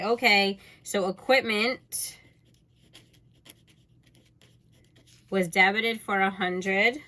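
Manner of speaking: slow, deliberate, spelling out each entry; slow dictation. Shown as a demonstration. Teacher showing students how to word the journal entry, slow and deliberate. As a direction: dictate it slowly so students can copy. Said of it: "but I would just say".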